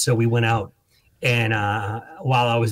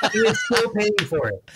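laughing; 9 semitones higher than usual. Real, not acted. Laughing at his own story.

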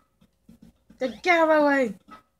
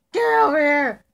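called-out shout; 4 semitones higher, 6 dB louder than usual. Pretend. Calling a character over.

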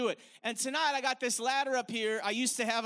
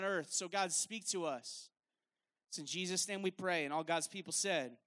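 lower, measured praying voice; public prayer; 5 semitones lower than usual. Acted. Leads a prayer.

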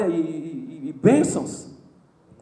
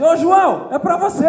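higher, much louder call to João; teasing shout; 8 semitones higher, 7 dB louder than usual. Retold or imitated. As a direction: tease a friend across the church. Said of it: "Aí o outro gritava assim".

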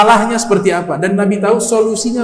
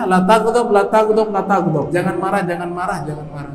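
fading repetition; 4 semitones lower, 6 dB quieter than usual. Acted. Preacher voicing the Prophet's advice, fading to a hush. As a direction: repeat the advice, each time quieter, until it dies away.

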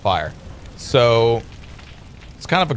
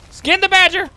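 high-pitched urgent yell; excited battle cry; 3 dB louder than usual. Real, not acted. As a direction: call out the order in a frenzy. Urgent call during badger fight.

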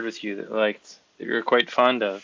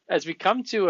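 laughing; 7 semitones higher, 6 dB louder than usual. Real, not acted. Laughs after Obama joke.

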